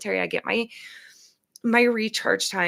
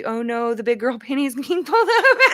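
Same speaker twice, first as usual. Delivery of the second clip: laughing mock panic; 4 semitones higher, 5 dB louder than usual. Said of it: "They're going to".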